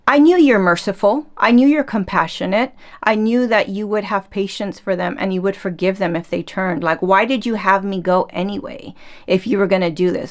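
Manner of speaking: half-hearted indignant griping; mad Jonah. Retold or imitated. Jonah complaining to God, mildly mock angry. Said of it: "Jonah was mad".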